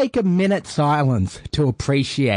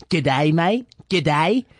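proper Aussie g'day; slower than usual. Shown as a demonstration. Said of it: "Do it again".

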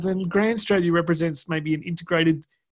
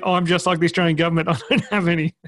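laughing; 2 semitones higher, 3 dB louder, faster than usual. Real, not acted. Joke punchline laughing.

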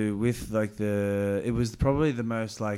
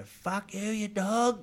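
mock teenage yell; 9 semitones higher, much slower than usual. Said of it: "I go right up and go".

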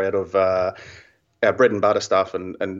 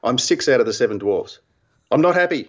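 embarrassing dad joke; 2 semitones higher than usual. Acted. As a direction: deliver a corny pun with a straight face. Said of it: "What a classic dad joke".

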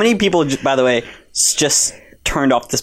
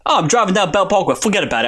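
imitated New York cabbie patter; New York Uber driver; 4 semitones higher, faster than usual. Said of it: "I had an Uber driver".

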